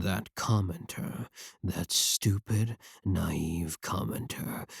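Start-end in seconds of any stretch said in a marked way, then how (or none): 1.6-4.7 slow, lower, softer seething contempt; contemptuous. Acted. Streamer sneering at the commenter, slow and low. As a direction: spit it out with slow disdain.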